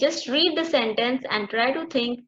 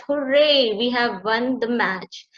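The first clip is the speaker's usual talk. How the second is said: excited cheer; slower than usual. Shown as a demonstration. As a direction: cheer it like a won match. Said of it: "when you have won the match".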